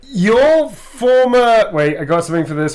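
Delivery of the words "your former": psychiatrist voice. Acted. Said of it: "your former psychiatric that told".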